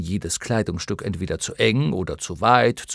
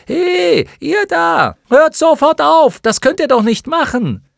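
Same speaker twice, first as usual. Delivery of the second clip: high, loud shout to stop; alarmed shout; 10 dB louder than usual. A narrator's reading. Bastian runs out to stop the creatures, alarmed shout. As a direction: call out loudly, high and urgent.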